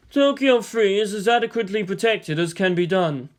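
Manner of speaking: lightly voiced Yang, matter-of-fact; explaining calmly. Yang explains the defenses to the base commander, calm. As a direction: lay it out evenly to the commander. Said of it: "he explained to the base commander".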